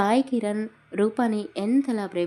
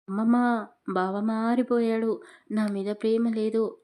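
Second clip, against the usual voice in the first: sulky complaint; 4 dB louder than usual. Acted. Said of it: "అని అలిగి కూర్చుంది".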